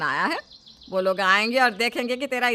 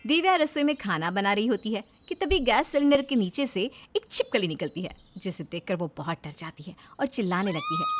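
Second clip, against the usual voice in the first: calm storyteller reading a Hindi serial; story narration; 3 dB quieter than usual. A narrator's reading. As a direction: narrate the scene evenly, setting it up. Narrator introduces the story scene.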